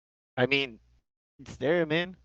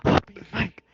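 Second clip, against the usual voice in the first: retold yell; 5 semitones higher than usual. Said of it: "and I started screaming".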